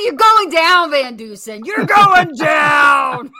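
slow taunting shout; trash-talk like a boxer; cocky boxer. Pretend.

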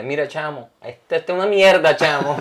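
telling off the barber in mock Venezuelan; half-joking Venezuelan complaint, rising; Venezuelan accent. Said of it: "para decirle".

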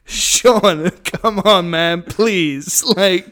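loud, laughing protest; host cracking up as his co-host hurls insults; laughing plea. Real, not acted. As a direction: beg him to stop through laughter. Host begs co-host to stop.

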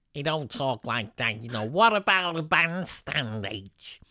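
hammed-up Scouse accent, drawn out; broad Scouse impression. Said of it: "soft Roger McGuffey kind of Scouse accent".

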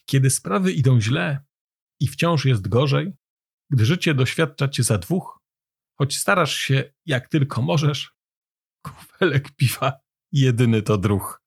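measured verse, pausing after each line; poem recitation. A narrator's reading.

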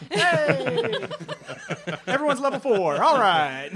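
high, loud cheering laugh; excited laughing. Real, not acted. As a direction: whoop with joy. Celebrating level up.

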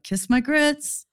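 sassy diner waitress brushing someone off; Flo from the diner. Retold or imitated. Dreaming of running a diner, quoting Flo in a sassy drawl. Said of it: "Be like".

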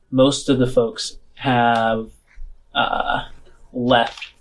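measured scene-setting with drawn-out phrases; game master narration. Acted. Game master walks players into the wrecked bar, measured narration. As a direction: set the scene for the players, lingering on details.

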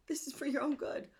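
soft menacing critic whisper; creepy whisper. Acted. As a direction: hiss it like a manipulative inner voice. Voicing the inner critic.

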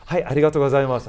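fast, bright laughing arigatou gozaimasu; rushed, laughing polite thanks in Japanese. Retold or imitated. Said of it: "And I'd be like".

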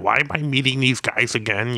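lightly voiced grumpy celebrity; Stan Lee. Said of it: "I can't do a Stan Lee impression".

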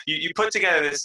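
ordinary talk, nothing marked

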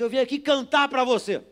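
loud, high declaration; retold bold announcement. Pastor telling a hostile man he came to sing, loud and high.

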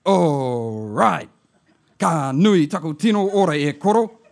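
put-on chatty old auntie on the phone; lightly voiced auntie. Auntie back from hospital.

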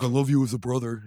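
lightly imitated cohost; a hint of cohost impression; Joe's voice. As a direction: put on the sidekick's voice. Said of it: "In that voice".

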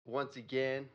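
radio host outro. Acted.

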